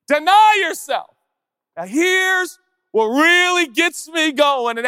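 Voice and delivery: loud high proclamation; preaching shout. Acted. Pastor to church, repeating the command in a loud high shout. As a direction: ring the scripture out.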